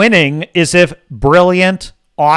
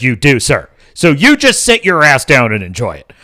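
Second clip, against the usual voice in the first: hint of a stern scolding, half-mocking; mock stern talking-to; 3 semitones lower than usual. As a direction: lightly play a stern schoolmaster telling someone off. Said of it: "just giving them a stern talking to about".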